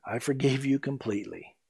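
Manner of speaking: hushed, tender whisper; gentle whisper. Acted. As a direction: whisper it softly as a reassurance. Jesus speaks to the preacher.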